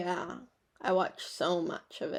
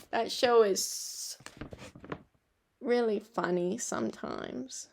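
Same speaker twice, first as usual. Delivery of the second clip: depressing voice; 3 dB quieter than usual. Real, not acted. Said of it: "in the most depressing voice".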